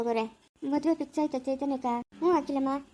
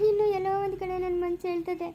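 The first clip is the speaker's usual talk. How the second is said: tearful lament, higher-pitched with sobs between phrases; weeping, voice pitched up, halting between phrases; crying; 4 semitones higher than usual. Acted. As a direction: pour out the heartbreak through sobs. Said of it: "ಅಳ್ಬೇಡಿ ಸುಮ್ನೆ ರೀ ಅಖಿಲಮ್ಮ".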